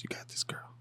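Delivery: put-on barely breathed, you got this girl; a ghost of a pep talk; fainter whisper. Coaching Rita under breath.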